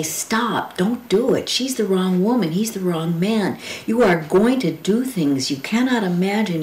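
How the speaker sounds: a touch of desperate pleading; urgent warning. Acted. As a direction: beg them not to go ahead. Poem speaker warns her parents.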